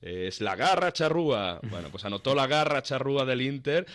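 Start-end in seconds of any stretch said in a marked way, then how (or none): 0.4-1.6 raised, higher shouted catchphrase; shouting. Retold or imitated. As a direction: call it out like a goal cry. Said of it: "empieza a gritar".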